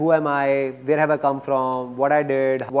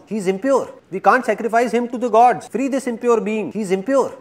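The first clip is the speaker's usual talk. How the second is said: higher, urgent tribal shout; tribal man shouting; 6 semitones higher than usual. Acted. Tribal man shouting to his people, raised and urgent. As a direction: call out that he is impure. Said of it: "looks at Akbar's injured thumb and shouts".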